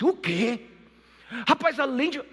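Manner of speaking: high, loud shouting for the guards; furious king. Retold or imitated. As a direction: explode and call the guard.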